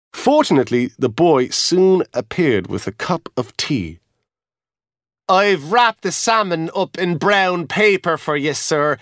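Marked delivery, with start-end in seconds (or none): 5.3-9.0 bright, obliging porter; helpful and pleased; a lightly voiced cheerful young porter. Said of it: "he said cheerfully".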